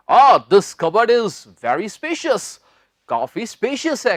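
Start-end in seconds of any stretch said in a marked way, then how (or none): 0.1-2.6 slow, lightly acted example line; lightly voiced example sentence. Shown as a demonstration. Teacher acting out example for students. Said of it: "नाइस कबर्ड".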